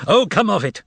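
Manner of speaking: high, stern rebuke; stern shout. A narrator's reading. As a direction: cut him off sternly. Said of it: "shouted sternly".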